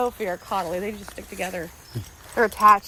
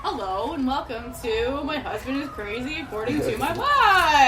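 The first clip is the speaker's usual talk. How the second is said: announcer intro; 4 semitones higher, slower than usual. Pretend. Mock show intro.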